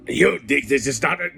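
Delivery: loud, hammed-up cartoon villain impression; Jafar. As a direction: play the over-the-top animated villain. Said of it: "the original Jonathan Freeman is, is Jafar".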